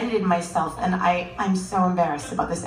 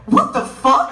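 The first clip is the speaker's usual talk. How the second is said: put-on kid's shocked outburst; 4 semitones higher, 6 dB louder, slower than usual. Six-year-old's outburst.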